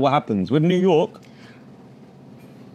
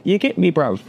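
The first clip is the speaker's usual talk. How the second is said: mock London slang; 5 semitones higher than usual. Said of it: "they would say".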